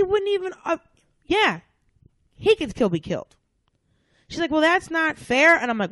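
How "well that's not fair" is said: higher, slow mock whine; mock whiny complaint. White woman whining.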